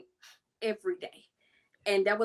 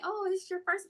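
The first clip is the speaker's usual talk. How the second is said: sweet opponent voice; 10 semitones higher than usual. Retold or imitated. Opponent girl asks.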